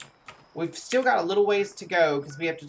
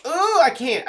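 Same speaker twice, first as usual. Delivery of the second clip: recoiling ooh; 12 semitones higher, 9 dB louder than usual. Real, not acted. Recoiling at creature's look.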